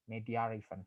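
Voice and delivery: "Media event" with an R slipped between the words; intrusive R. Shown as a demonstration. Lecturer repeating the intrusive R example, "Media event" joined by R. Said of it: "use R in the middle of media and event".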